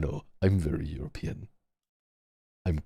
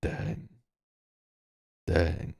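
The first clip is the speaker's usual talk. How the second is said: manly dang. Shown as a demonstration. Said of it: "when you say dang".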